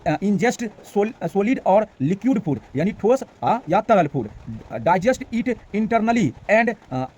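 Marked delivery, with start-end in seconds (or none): 0.1-2.6 very slow, syllable by syllable; slow careful reading. Shown as a demonstration. Teacher reading the English definition to Hindi students, very slow. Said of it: "वही लिखे हैं". 4.7-7.1 very slow, syllable by syllable; slow careful reading. Shown as a demonstration. Teacher reading the English definition to Hindi students, very slow. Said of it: "वही लिखे हैं".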